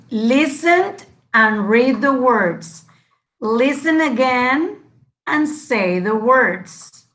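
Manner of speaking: slow, clear teacher read-aloud; carefully modelled instructions. Shown as a demonstration. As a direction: read it slowly for the class to copy. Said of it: "listen and repeat after me".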